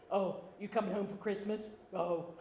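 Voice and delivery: lightly imitated low-voiced sister; sister's deep voice. Sister asking about coming home for Christmas, mock deep voice. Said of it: "She talks like that even now".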